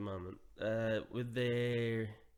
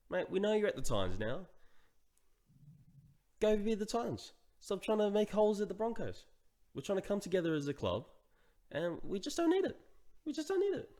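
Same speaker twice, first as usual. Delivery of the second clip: higher-pitched, mildly worked-up complaint; mildly exasperated sports rant; a bit mad; 6 semitones higher than usual. Real, not acted. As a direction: plead your case with rising exasperation. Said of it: "I'm getting a bit mad here".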